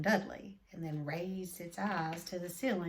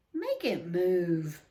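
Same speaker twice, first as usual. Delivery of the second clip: put-on whiny child; 2 semitones lower, 5 dB louder, slower than usual. A narrator's reading. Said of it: "he whined at his father".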